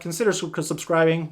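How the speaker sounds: stumbling over the word, then restarting; tongue-tied. Real, not acted. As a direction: trip on the first syllable and start over. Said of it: "Wow, I can't even speak".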